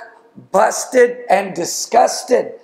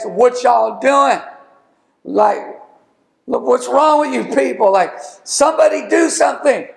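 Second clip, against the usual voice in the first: exasperated challenge; 5 semitones higher than usual. Acted. David scolding the frozen army, exasperated and raised. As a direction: shake the grown men out of their silence. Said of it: "can I paraphrase".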